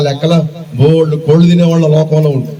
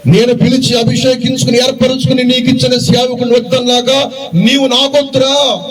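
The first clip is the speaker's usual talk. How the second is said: voice of God; 5 semitones higher than usual. Retold or imitated. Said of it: "అంటే దేవుడు అంటాడు".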